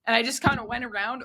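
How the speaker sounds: ordinary talk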